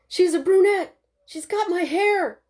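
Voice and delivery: loud, high, delighted; joyful shouting. Acted. New father shouting happily about his daughter's hair. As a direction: burst out with a proud father's delight.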